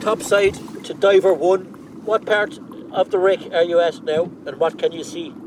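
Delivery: loud radio call to a diver; diver comms. Real, not acted. Boat calls diver over radio.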